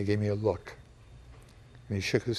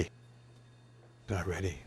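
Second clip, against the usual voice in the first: much softer and slow, trailing off; quiet sad repeat; 5 semitones lower, 13 dB quieter, much slower than usual. Retold or imitated. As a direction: let the worry sink into a hushed echo. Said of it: "I was so emotional".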